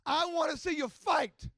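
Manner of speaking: loud imitated urging; mother's urging. Mother repeatedly urging her son to fight, insistent. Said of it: "she kept repeatedly saying".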